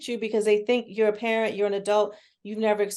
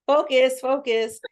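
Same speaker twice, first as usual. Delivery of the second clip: mock urging; 5 semitones higher, 6 dB louder, slower than usual. Retelling a child's Zoom session.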